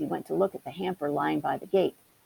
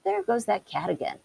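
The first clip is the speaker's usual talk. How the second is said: exclaiming; 4 semitones higher than usual. Acted. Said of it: "exclaimed Johnny Town Mouse".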